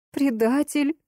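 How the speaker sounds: high anguished scream. Acted. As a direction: hurl the word at him. Girl screams at betrayer.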